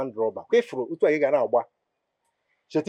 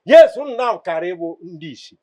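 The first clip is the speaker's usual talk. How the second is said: loud, slightly raised accusation; loud demanding voice; 4 semitones higher, 8 dB louder than usual. Acted. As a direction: throw it out for the neighbours to hear. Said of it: "Anybody wey hear your voice now".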